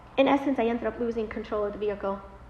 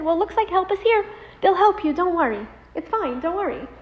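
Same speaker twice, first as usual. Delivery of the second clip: tag; 7 semitones higher, 7 dB louder than usual. Retold or imitated. Reassuring the injured husband.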